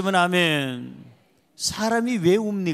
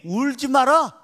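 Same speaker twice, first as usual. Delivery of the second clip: the Lord calling out; 5 dB louder than usual. Retold or imitated. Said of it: "주님이".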